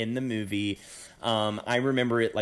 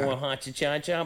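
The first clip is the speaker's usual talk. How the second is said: put-on old-timey comic voice; 3 semitones higher than usual. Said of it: "he was like more".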